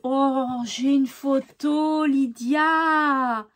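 slow, drawn-out delighted exclamation; real thrilled discovery, lingering on the name; delighted surprise. Real, not acted. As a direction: stretch the vowels in happy surprise. Delighted at finding viewer's photo.

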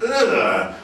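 high-pitched exaggerated ugh of revulsion; hammed-up noise of a disgusted girl; mock disgusted groan. Girl's disgust in imagined video.

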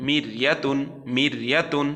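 মির ইয়াতুন chanted with a thin R; tajweed demo of মির ইয়াতুন; recited demo. Shown as a demonstration. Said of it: "পড়তে থাকুন".

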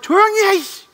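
high, loud mock shout; neighbor yelling. Angry neighbor yelling at the drunk in the playground, mock shout. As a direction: bark it out the window.

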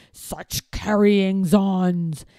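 slow, low grumble of disgust; disgusted mutter. Acted. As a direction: sneer it under your breath. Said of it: "he would mutter in disgust".

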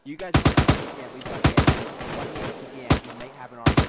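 loud shout over the noise; shouting over gunfire. Real, not acted. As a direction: yell it so the team hears.

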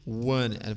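"Want it" linked as "wanit"; Americanized pronunciation. Shown as a demonstration. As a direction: drop the first T and blend "Want it" into "wanit". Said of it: "num jeito mais america". ("Want it" emendado como "wanit", jeito americanizado)

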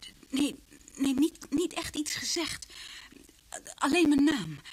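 panicking as the memory returns; agitated fearful voice; frightened outburst. Acted. Victim recalls attacker's voice.

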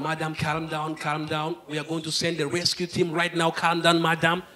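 soft, soothing mock police voice; calming someone down. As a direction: talk a panicked woman down gently. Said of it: "the police calling her down".

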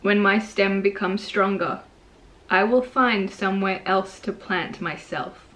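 measured poem reading with long pauses; poetry reading. Real, not acted. Poet reading Seeds to viewers, measured poetry reading. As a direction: read it line by line, letting each one settle. Reads own poem aloud.

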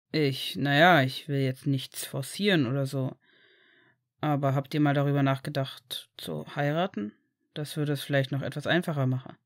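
lightly voiced low man's part; tactful Severus. Severus carefully suggests marriage to the couple, tactful and low.

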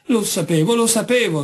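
high, panicky narrated cry; frightened shriek. A narrator's reading. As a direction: cry out in alarm, pitch climbing. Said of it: "strillò Tefara".

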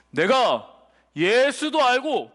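slow, deliberate demon pronouncement; a lightly voiced demon, drawn out word by word; demon speaking. Evil spirit answering the exorcists, slow and deliberate. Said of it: "귀신이 얘기하는 거야".

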